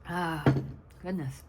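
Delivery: ordinary talk, nothing marked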